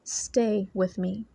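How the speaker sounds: slow phrase with Stay drawn out; stress on Stay. Retold or imitated. Relaying words heard in private prayer, stress on "Stay". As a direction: lean on "Stay", taking the phrase slowly. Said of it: "emphasis was put on the word, "stay".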